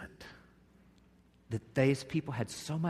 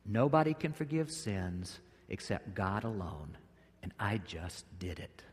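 softer, lower pointed aside; imagined Jesus; 5 semitones lower, 7 dB quieter than usual. Pretend. Jesus turning the scribes' words back on them, quiet and pointed. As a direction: hand them back their own words, gently. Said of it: "I can imagine Jesus say".

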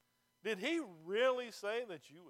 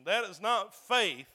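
"not" hit hard, louder and slow; stress on not; 10 dB louder, slower than usual. Acted. Pastor denying false faith, slow stress on "not". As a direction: lean on "not" and stretch the line. Repeated denial with contrast.

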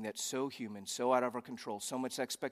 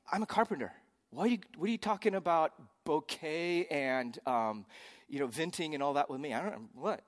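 sarcastic; 3 semitones higher than usual. Acted. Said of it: "sarcastically, we would translate it this way".

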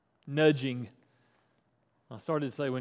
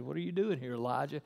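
softer, hushed repeat of the question; quiet still voice; 2 semitones lower, 5 dB quieter, faster than usual. Acted. God speaks to Elijah after the fire, quiet and gentle. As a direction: ask gently, as a still small voice. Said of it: "God spoke quietly, very quietly".

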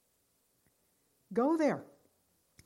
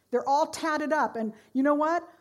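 louder, higher preaching build; rising fervor; 5 semitones higher, 6 dB louder than usual. Real, not acted. Preacher building to a point about tattoos, louder. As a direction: lift the congregation up.

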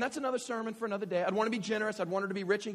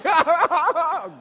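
shrill hammed-up laugh, higher and much louder; mock shrieking laugh; 11 semitones higher, 17 dB louder than usual. Dad begging his daughter to smile, screeching laugh. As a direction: burst out in a frantic fake laugh.

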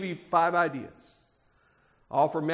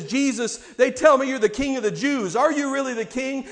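Pilate questioning; 6 semitones higher, 4 dB louder than usual. Acted. Pilate questioning Jesus, voiced.

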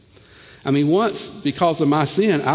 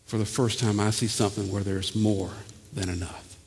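softer, falling, moved voice; hushed tearful quote; 4 dB quieter than usual. Acted. Mary at the ocean telling the children, softer and moved. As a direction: let Mary's awe break quietly. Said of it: "She said".

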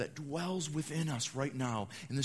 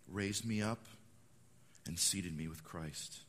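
calm declaration; 5 semitones lower, slower than usual. Shown as a demonstration. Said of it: "you need to say".

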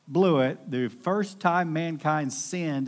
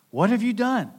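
mock stern God; 8 semitones higher, 5 dB louder than usual. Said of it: "The Lord God said to the woman".

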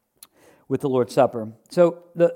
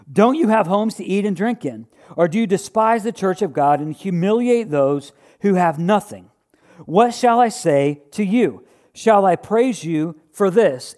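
raised, emphatic reading of Paul's letter; scripture reading; 2 semitones higher than usual. Acted. Preacher reading Paul's rebuke to the church, emphatic. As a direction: read it out like a stern apostle.

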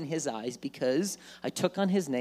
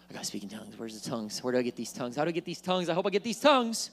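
a worried seeker getting more desperate; anxious; 3 semitones lower, much faster than usual. Acted.

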